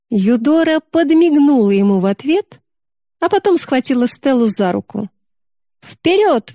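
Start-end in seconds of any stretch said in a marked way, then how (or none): 5.8-6.5 high excited cry; girl's eager exclamation; exclaiming. A narrator's reading. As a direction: leap in with a bright shout. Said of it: "воскликнула она".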